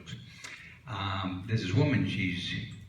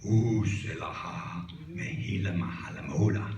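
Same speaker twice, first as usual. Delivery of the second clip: magic words. Acted. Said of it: "he says the magic words".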